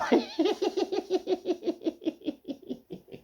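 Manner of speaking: long, very high wheezing giggle; helpless laughter. Real, not acted. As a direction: laugh until only squeaks come out. Cracks up at punchline.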